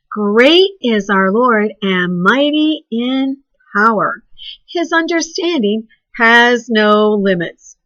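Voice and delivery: slow, measured scripture recital; memory verse recitation. Shown as a demonstration. Teacher models the memory verse for children, slow and clear. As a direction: say each phrase slowly for the class to copy. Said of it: "Let me hear you say it".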